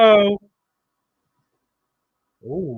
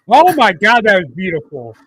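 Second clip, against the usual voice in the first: awed exclamation; 7 dB louder than usual. Real, not acted. Awed by a great wrestling move.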